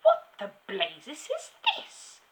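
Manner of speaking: outraged headmistress outburst; yelling. A narrator's reading. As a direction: demand it loudly, word by word. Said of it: "yelled the Trunchbull".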